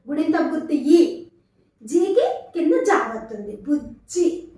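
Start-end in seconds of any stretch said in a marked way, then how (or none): 3.6-4.5 బుజ్జి with the జ్జ pressed firmly; stressed doubled consonant. Shown as a demonstration. Teacher explaining the double letter, stressing జ్జ in బుజ్జి. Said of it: "ఒత్తి పలకాలి".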